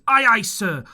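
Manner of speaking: high, loud shouted reply; eager answer. A narrator's reading. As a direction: sing out to the captain. Pirates answer the blind man.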